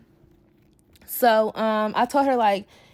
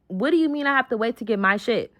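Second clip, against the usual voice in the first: indignant question; 2 semitones higher, faster than usual. Retold or imitated. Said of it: "repeated louder and faster".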